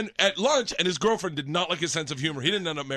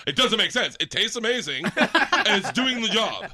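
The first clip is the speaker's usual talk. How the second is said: put-on laughing drunk self; 3 semitones higher, 4 dB louder, slower than usual. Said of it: "I was like".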